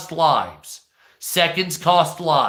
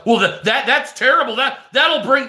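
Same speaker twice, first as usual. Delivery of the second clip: higher-pitched, stammering mock objection; mock outrage; 7 semitones higher than usual. Streamer mimics TikTok objecting to an offense, in raised mock alarm. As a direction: imitate a scandalized complainer, tripping over the words.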